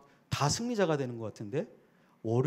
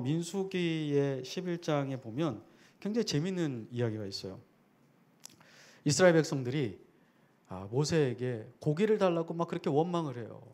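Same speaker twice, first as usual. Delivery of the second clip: normal talking voice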